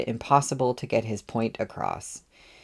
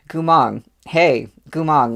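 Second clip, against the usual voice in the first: louder call across the hall; 4 semitones higher, 7 dB louder than usual. A narrator's reading. Li Wei calling after departing Gumong, raised call. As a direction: call after him, higher. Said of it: "Li Wei called".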